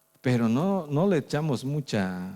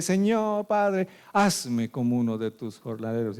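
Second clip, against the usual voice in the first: pleading son; 2 semitones higher than usual. Acted. Prodigal son begging his father, pleading. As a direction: beg to be taken back.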